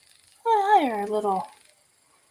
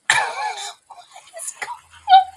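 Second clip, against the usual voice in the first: slow, much higher drawn-out disbelief; baffled; 4 dB louder, much slower than usual. Retold or imitated. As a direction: stretch it out in total confusion. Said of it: "I'm watching going".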